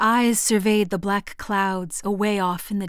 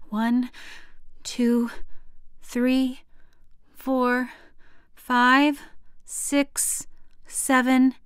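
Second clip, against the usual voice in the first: tense counting; 4 semitones higher, much slower than usual. Acted. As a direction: count each number tensely. Child counting during lightning.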